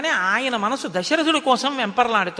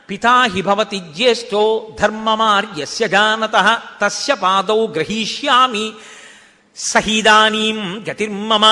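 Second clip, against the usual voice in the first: slow, louder chanted Sanskrit verse; shloka recitation; 5 dB louder, slower than usual. Acted. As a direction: intone the shloka like a pravachanam. (శ్లోక పఠనం, నెమ్మదిగా గట్టిగా)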